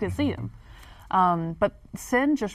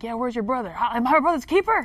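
mock-defensive Cain in a high falsetto; 4 semitones higher than usual. Retelling Cain dodging God, high falsetto. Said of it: "That was your falsetto voice".

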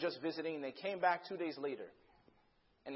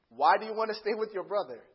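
slightly reined-in acted dad, still louder; measured insistence; 7 dB louder than usual. Dad asking daughter about her brother, controlled insistence.

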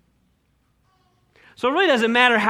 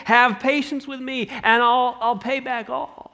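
pleading servant; 4 semitones higher than usual. Acted. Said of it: "What does he say?".

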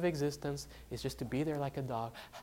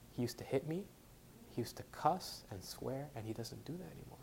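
quiet retold confession; 10 dB quieter than usual. Retold wife's hushed confession.

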